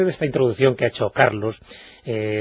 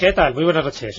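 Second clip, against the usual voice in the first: distorted, hollow phone-line voice; voice from beyond the grave. Real, not acted. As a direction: sounds like a voice from a crypt. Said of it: "te hablo desde el más allá".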